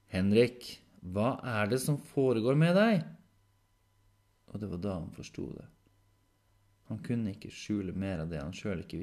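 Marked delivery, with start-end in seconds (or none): 0.1-3.1 louder, higher, insistent question; concerned demand. Acted. Caretaker confronting Henrik over his behaviour, alarmed. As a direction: demand an answer out of worry.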